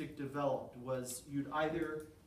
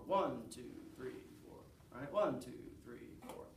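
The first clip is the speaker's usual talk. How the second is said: teacher counting in half the class; plain count; 3 semitones lower, 4 dB quieter than usual. Shown as a demonstration. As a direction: count evenly for the clappers. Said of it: "clap as you did before".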